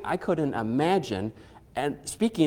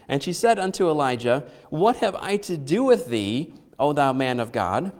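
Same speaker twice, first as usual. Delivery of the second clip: derisive; 3 semitones higher than usual. Retold or imitated. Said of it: "She is being derisive".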